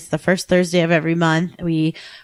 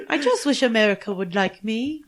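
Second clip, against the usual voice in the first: King George impression; 4 semitones higher, 4 dB quieter than usual. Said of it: "That's not it".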